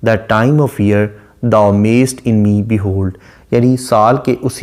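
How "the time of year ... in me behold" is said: slow poem recital. Shown as a demonstration. Teacher reads Shakespeare line to students, very slow recital. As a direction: read the line very slowly, weighing each word. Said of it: "line number one में वो कहता है".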